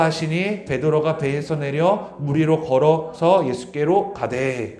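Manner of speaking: slow, measured reading of the verse; scripture reading. Acted. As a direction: read the verse aloud with the church.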